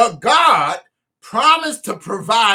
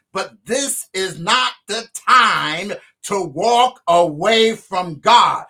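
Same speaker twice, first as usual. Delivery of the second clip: slow, deliberate phrasing; said slowly. Shown as a demonstration. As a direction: spell it out slowly for emphasis. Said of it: "Let me say this slowly".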